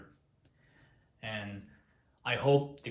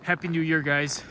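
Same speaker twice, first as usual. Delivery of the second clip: upbeat, bright greeting; cheerful; 3 semitones higher, 5 dB louder than usual. Real, not acted. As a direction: call it out happily. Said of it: "plain cheerful take".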